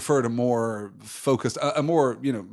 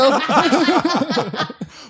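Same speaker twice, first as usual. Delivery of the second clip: high burst of laughter; 6 dB louder than usual. Real, not acted. Laughing at the joke.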